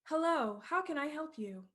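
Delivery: a chirpy app answering; phone assistant voice. Acted. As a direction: greet like a cheerful voice assistant.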